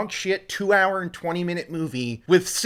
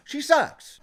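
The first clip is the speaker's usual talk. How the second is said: laughing agreement; 10 semitones higher than usual. Real, not acted. Laughing echo of Patty's line.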